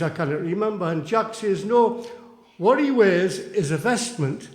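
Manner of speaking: lively storyteller tossing corrections back and forth; emphatic comic back-and-forth; comic quibbling dialogue. Acted. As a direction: recite a mock argument between two mates. Performs poem's quibbling dialogue.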